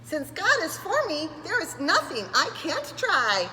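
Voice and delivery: high, slow and proud; tiny termite sure she can; little termite voice. Acted. Tina's voice in story.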